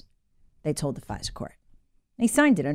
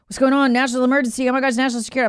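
imitating panicked parent; 6 semitones higher, much faster than usual. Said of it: "a panic call from their mom or their dad".

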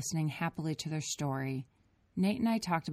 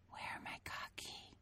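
slow whisper; half-hearted whisper; 18 dB quieter than usual. A narrator's reading. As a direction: whisper it timidly. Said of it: "Matea whispered".

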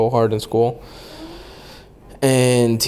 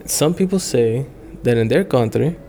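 a hint of an Indian English lilt; light Indian accent; 2 semitones higher than usual. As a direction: lightly imitate the Indian tour guide's accent, playful. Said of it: "I'm gonna try to do his accent".

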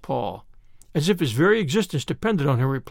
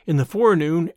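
plain reading voice

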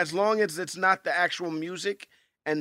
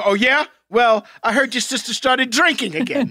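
mock smack talk; 4 dB louder than usual. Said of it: "And you go".

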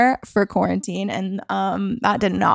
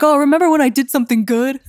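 wistful boast; 6 semitones higher, 4 dB louder than usual. Retold or imitated. Voicing own nostalgic feeling.

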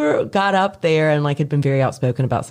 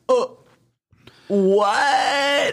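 high, drawn-out incredulous "what"; stunned disbelief; 11 semitones higher than usual. Retold or imitated. Classmates reacting to a shocking presentation, stunned. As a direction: mimic a whole room's shock.

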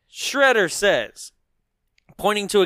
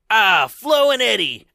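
Shredder heckling; 4 semitones higher, 4 dB louder than usual. Retold or imitated. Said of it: "and he goes".

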